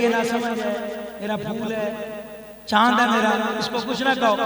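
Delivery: gently shield your little one, voice dropped; protective mother. Acted. Mother excusing her innocent toddler to others, softly protective. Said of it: "तो माँ कहती है".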